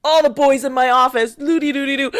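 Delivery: lightly mocked blustering boss; annoying boss. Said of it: "He's the most annoying boss".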